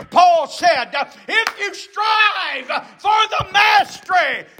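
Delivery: climbing to a high, shouted climax; full-force preaching. Real, not acted. Preacher warning of a struggle to the death, full-force preaching. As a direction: build to a ringing cry.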